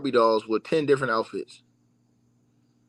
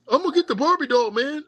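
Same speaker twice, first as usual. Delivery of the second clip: high, silly voice of a fan hyping the doll; mocking the fans; 10 semitones higher than usual. Mocking fans who want the Barbie, high goofy voice. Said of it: "dudes on YouTube talking like that".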